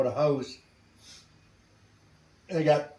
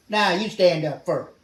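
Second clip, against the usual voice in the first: louder, higher, pushy retort; belligerent refusal; 4 semitones higher, 6 dB louder than usual. Retold or imitated. Aviator refuses to stand up for unseen troops, retold belligerent refusal. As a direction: throw the order back, mildly belligerent. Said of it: "belligerent son of a bitch".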